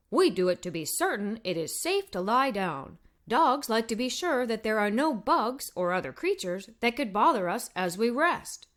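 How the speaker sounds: hint of a dog's voice, matter-of-fact; lightly voiced talking dog. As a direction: explain it plainly like a patient dog. Dog character explains.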